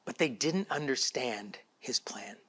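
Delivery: soft unvoiced whisper. Real, not acted. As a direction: drop to a whisper for the congregation. Sermon hushed aside.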